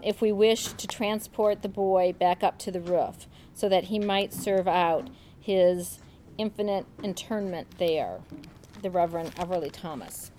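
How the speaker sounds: measured reading aloud from a novel; literacka narracja. A narrator's reading. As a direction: read the passage out evenly, pausing before each attribution. Reads the book aloud.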